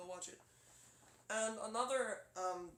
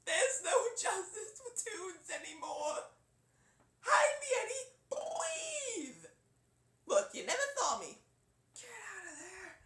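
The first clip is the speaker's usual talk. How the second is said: high, loud, frantic cartoon plea; Roger's voice; 6 dB louder, slower than usual. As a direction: beg to hide, panicked and high. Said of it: "that's basically Roger's voice".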